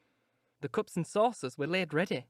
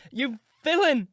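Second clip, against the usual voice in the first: higher, loud and outraged; crying out again; 7 semitones higher, 6 dB louder, slower than usual. Acted. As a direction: throw the word at him once more. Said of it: "I began to cry".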